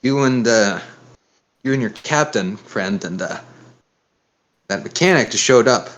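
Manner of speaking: attempted Southern accent, lightly done; a hint of Southern in the questioning; shaky try at a Southern accent. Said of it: "This is a southern accent".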